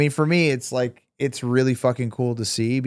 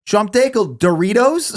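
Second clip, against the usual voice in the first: slow, higher Arabic-accented English; 9 semitones higher, 5 dB louder, slower than usual. Shown as a demonstration. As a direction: say it slowly with a put-on Arabic accent. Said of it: "so they add an accent to English words".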